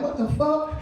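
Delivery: can't believe what he hears; incredulous. Retold or imitated. Exasperated retort to kid.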